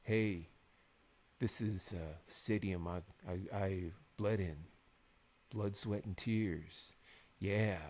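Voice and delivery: low, slow, halting mock-poetic monologue; imitating a self-serious, low, slow promo; slow wrestler trash talk. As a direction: drag it out softly with heavy pauses. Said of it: "they both spoke so slowly".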